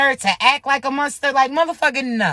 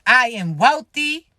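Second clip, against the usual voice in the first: affirmation. Shown as a demonstration. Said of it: "you better say that shit".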